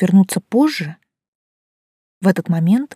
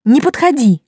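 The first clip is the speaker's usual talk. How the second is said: higher, louder panicked cry; 7 semitones higher, 7 dB louder than usual. Acted. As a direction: stop him in a panic, loud and high. Panicked cry right after the shriek. (испуганный крик, выше и громче)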